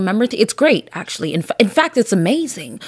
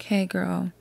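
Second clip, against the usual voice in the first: mock club greeting; 11 dB quieter, slower than usual. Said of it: "I'm like".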